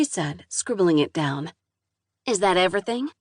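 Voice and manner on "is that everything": southern drawl. Acted. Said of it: "thick southern drawl".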